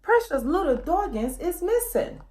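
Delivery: a father calling for his lost pup; frantic cry for help. Acted. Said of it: "This meant".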